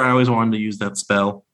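a bad, quick Scottish brogue; awful Scottish accent. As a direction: butcher the line in a Scottish brogue. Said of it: "I'll do my awful accent".

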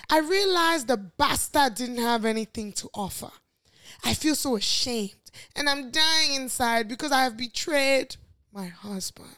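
put-on reading in a light posh Nigerian accent. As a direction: put on a hint of posh Naija English. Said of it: "That's your posh Naija".

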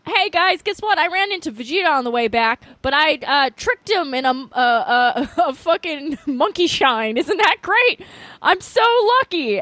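put-on excited kid Gohan. Gohan voiced in recap.

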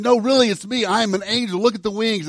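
mock angel begging to be believed; lightly voiced angel insisting he's real; insistent angel. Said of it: "the angel might have said".

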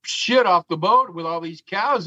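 mock lazy captain voice; imitating the other captain. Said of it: "and he goes".

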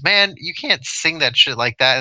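mock-indignant movie quote, slowed down; Chris Tucker. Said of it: "Chris Tucker goes".

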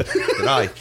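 laughing mock-Aussie greeting; playful Aussie accent; Australian accent. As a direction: throw out an Australian g'day with a laugh. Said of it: "do an Australian accent".

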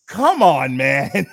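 loud fed-up groan of disbelief; exasperated. Real, not acted. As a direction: throw it out in exasperation. Exasperated reaction to plot twist.

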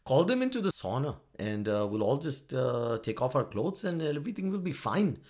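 lilting mock Finnish accent; stereotyped Finnish accent. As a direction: play a carefree, tipsy leader with a Finnish accent. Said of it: "I'm just gonna stereotype that stuff".

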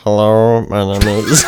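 lightly voiced tech-boss waiter; Mark Zuckerberg. Waiter introducing himself to diners, lightly put-on tech-boss voice. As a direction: attempt a stiff waiter impression. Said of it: "More Mark Zuckerberg".

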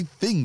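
"thing" said with a TH; TH sound. Retold or imitated. Friend questioning how he says thing, TH pronounced. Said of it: "with the T H".

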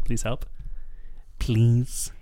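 lightly voiced robot calling from a well; robot trapped in a well. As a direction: plead like a robot at the bottom of a well. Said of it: "a robot trapped in a well".

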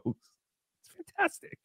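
high, soft, drawn-out fantastic; high slow catchphrase. Acted. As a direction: stretch it high and airy. Recurring catchphrase voice.

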